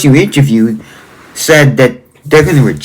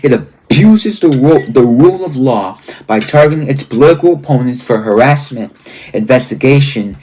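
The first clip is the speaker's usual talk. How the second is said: emphatic read-aloud. Real, not acted. Host reading a book's warnings to viewers, emphatic and deliberate. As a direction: read each charge out as a grave list.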